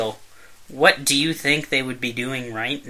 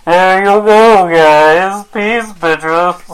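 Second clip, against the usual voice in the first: louder, put-on cooking-show voice; a light Julia Child imitation; Julia Child impression; 4 semitones higher, 11 dB louder, much slower than usual. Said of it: "You gotta do that".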